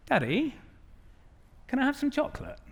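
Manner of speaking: put-on high, small voice of a five-year-old; sweet little daughter asking. Daughter sweetly asking dad for chocolate, high and small. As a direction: pipe up like a small girl.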